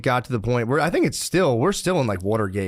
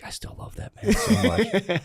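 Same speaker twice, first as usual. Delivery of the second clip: mock devotion; 10 semitones higher than usual. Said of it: "He's still like".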